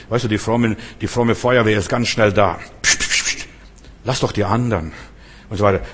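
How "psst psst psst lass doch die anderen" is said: hissed psst then scolding aside; mock hushing. Pious crowd shushing the blind beggar. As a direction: shush him like a pious busybody.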